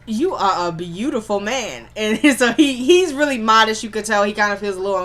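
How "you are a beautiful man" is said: admiring. Retold or imitated. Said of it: "And then she goes".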